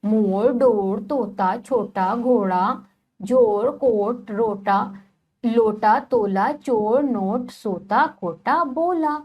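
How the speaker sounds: each word read clearly and separately for the class; reading a word list aloud. Shown as a demonstration. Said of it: "शब्दों का उच्चारण कीजिए". (शब्दों को धीरे और साफ़ बोलना)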